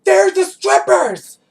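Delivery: slow, high, loud yelled announcement; drunk friend shouting. Retold or imitated. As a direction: bellow it out across the bar. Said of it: "He was like".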